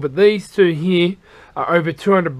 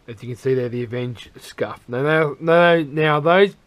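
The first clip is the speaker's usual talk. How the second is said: hoarse after a night out; rough, husky voice; 5 semitones lower than usual. Real, not acted. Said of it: "Excuse my voice, it's very husky at the moment".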